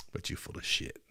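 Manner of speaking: unvoiced hissed whisper, very soft. Real, not acted. Telling the president he's lying, whispered in scorn. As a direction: breathe it out under your breath with contempt. Repeated, whispered then spoken.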